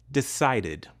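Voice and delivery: "Decided" ending in id. Shown as a demonstration. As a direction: say "Decided" with an extra final syllable, id. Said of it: "So we pronounce the ending".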